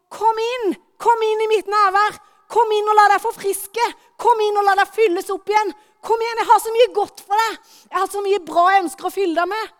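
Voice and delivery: loud, high inviting call. Acted. God calling people into his presence, loud. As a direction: call them in joyfully. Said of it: "de står og roper".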